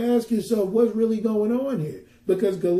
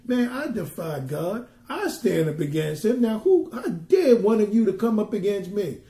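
mocking defiance. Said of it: "how these people are saying".

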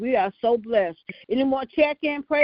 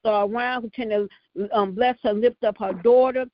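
prayer cadence, calling on Lord; fervent prayer. Acted. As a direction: pray it out with fervor. Leads the prayer line.

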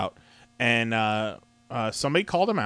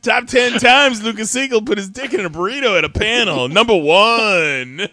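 mock announcer; 7 semitones higher, 6 dB louder than usual. Mock list-show announcer.

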